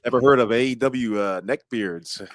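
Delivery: put-on weak, barely-there Canadian accent; attempted Canadian accent. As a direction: have a half-hearted go at Canadian. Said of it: "That's the best Canadian I've got".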